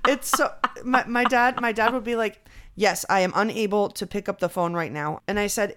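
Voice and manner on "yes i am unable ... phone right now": stiff answering-machine tone; lightly voiced robotic dad; automated response voice. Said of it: "It sounds like an automated response".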